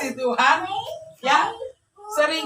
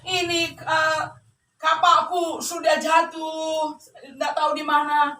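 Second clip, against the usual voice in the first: mock crying; 4 semitones higher than usual. Woodcutter lamenting his lost axe, acted tearful wailing. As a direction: lament it like a hammed-up weeping old man. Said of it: "Terus dia menangis".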